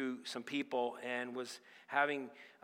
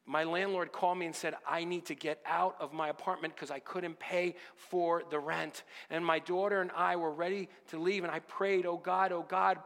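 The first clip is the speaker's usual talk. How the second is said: excited waitress; 4 semitones higher than usual. Retold or imitated. The waitress tells the preacher her prayer was answered, excitedly. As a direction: gush out the news of the answered prayer.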